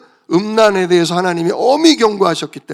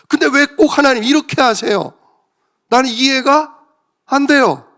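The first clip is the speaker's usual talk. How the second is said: high-pitched mock grumbling at God; whiny pleading objection, hammed up; resentful complaint; 5 semitones higher than usual. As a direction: act out an exasperated protest, pitch climbing. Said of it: "원망 불평은 내 생각과".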